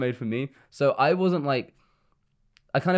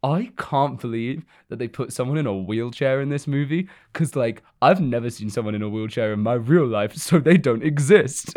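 whispered, scornful internet troll; mock a clueless commenter in a hush. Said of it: "target of the internet that's like".

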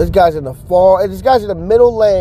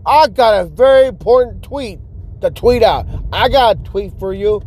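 higher, lightly voiced indignant driver; mock outraged driver; 4 semitones higher than usual. Voicing the driver who hates being honked at, mock indignant. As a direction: play the phone addict, huffy.

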